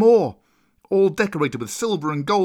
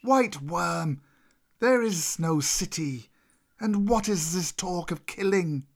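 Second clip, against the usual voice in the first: higher-pitched, scornful python voice; raised pitch without shouting; Kaa crying out; 5 semitones higher, slower than usual. Acted. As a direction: challenge the cobra, drawing the words out a little. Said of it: "Then Kaa cried".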